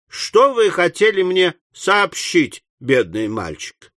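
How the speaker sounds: slow question, high then sinking; mildly tender, unhurried inquiry; gentle coaxing. Acted. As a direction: coax kindly, taking your time. Pickwick gently coaxes the boy.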